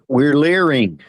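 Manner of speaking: "leering" said with a long ee in place of "learning"; joking mispronunciation. Shown as a demonstration. Correcting the group with a joke: "leering" for "learning". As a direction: turn "learning" into "leering", playfully. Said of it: "Le-, it's leer".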